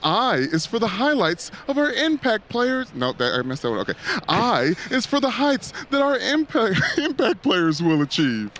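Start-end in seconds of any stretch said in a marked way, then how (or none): 0.0-2.9 dramatic, rising poem reading; Edgar Allan Poe voice. Acted. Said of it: "get my Edgar Allan Poe voice on". 4.3-8.5 upbeat cruise director; game show host voice. Acted. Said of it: "sounds like your game show host voice".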